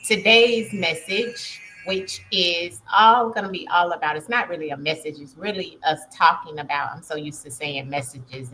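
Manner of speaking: talking around a retainer; words slightly blurred by a retainer; wearing a retainer. Real, not acted. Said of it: "I do have my retainer in, so if I'm talking a little funny".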